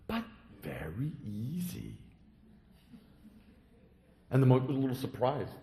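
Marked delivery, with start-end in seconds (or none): 0.1-2.0 whispered, slow secret. Acted. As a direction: breathe it like a secret. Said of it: "But the boy said".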